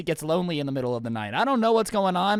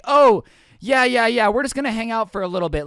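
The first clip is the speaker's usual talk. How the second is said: overeager agreement; 3 semitones higher, 6 dB louder than usual. Retold or imitated. Kids asked to leave, badly faked agreement. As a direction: agree too readily, covering up badly.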